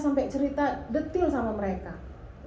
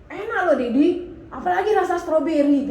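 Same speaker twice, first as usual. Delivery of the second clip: anak bercerita dengan santai; 5 semitones higher, 7 dB louder than usual. Retold or imitated.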